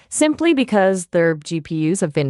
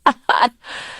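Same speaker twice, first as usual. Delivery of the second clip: breathless laugh; 5 semitones higher than usual. Pretend. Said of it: "I think I need a moment".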